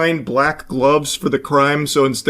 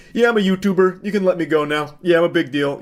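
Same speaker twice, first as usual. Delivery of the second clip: mock bragging; 4 semitones higher than usual. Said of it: "dusting his shoulder off".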